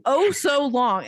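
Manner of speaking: mock the words oh so long. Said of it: "I quote".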